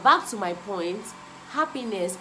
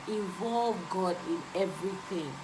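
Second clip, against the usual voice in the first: quieter repeat; 3 semitones lower, 6 dB quieter than usual. Real, not acted. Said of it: "I can't overemphasize this".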